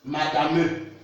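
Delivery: "madame" wrongly ending in a voiced "uh"; final e sounded. Shown as a demonstration. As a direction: say "madame" as ma-da-muh, sounding the silent e. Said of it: "Don't say".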